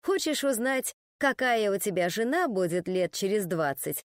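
plain reading voice

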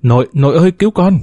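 panicked cry for grandma, jumping high; high frightened call to grandmother; calling for help. A narrator's reading. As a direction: plead for rescue in fright. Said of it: "Tiếng Dũng kêu cứu".

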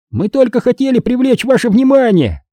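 high-pitched friendly gnome voice; eager, high, friendly assurance. A narrator's reading. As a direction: explain it amiably, high in the voice. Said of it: "дружелюбным тоном говорит Уэсли".

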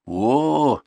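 high, drawn "oh"; pointed, lecturing exclamation; didactic. A narrator's reading. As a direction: make it a point of instruction. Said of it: "назидательно произнёс Дуков".

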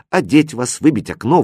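ordinary delivery, nothing marked

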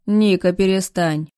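slow, weary, drained of energy; mildly limp and slow, a sick man's plea; languid. Acted. Sick old man weakly stops his mistress, slow and weary. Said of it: "вяло двигает рукой барин".

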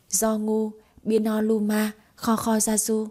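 hushed mystic incantation; whispered fake spell. Wife casting a fake spell on her husband, whispered. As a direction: whisper the spell staring into his eyes. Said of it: "nhìn chằm chằm vào mắt".

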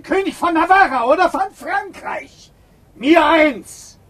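raving shout. Acted. Biron raving about his power.

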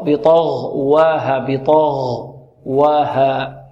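بطغواها drawn out slowly, heavy ط and غ, light و; heavy letters, light waw. Shown as a demonstration. Teacher models the word for students, heavy ط and غ, light و. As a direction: thicken ط and غ in بطغواها, keep و thin. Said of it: "هكذا تفخم الطاء والغين وترقق الواو".

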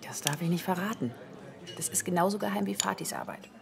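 whispered, hushed, as if sharing a secret. Acted. Rita whispers the secret to the curious child, hushed.

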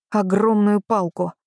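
ordinary delivery

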